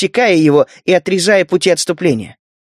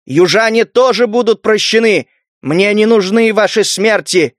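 urging shout; 4 semitones higher than usual. Acted. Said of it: "увещевал Север".

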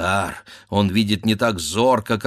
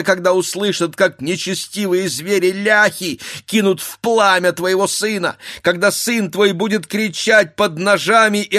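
higher, louder anguished plea; a wife begging for her child's sake; wife begging her husband to spare himself; desperate pleading wife; 9 semitones higher, 5 dB louder than usual. Acted. Katerina reproaching husband.

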